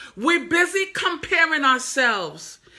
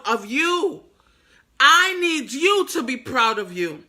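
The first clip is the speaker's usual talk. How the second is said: voicing God lovingly; 3 semitones higher, 4 dB louder than usual. God telling his baby girl he made her, fervent. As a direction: speak as God reassuring his child. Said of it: "God is like".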